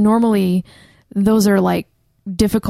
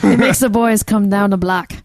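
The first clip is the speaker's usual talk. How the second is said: sultry voice. Pretend. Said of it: "It's my sultry voice".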